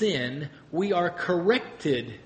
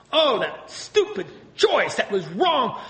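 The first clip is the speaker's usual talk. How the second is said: higher, slow, with a laugh; rejecting the choice; 4 semitones higher than usual. Retold or imitated. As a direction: laugh off the bad choice, lightly. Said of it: "It's what a terrible sin I chose".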